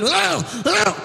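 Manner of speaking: high imitated grunts; high-pitched mock "ugh" noises. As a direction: mimic a dragged man's groans. Dragged man's noises imitated.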